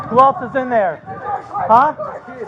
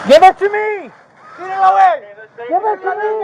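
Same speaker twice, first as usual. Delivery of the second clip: urgent shout; 5 semitones higher than usual. Real, not acted. Grabbing child through window.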